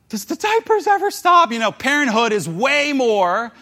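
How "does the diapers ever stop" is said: exasperated parent. Retold or imitated. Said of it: "you're not like".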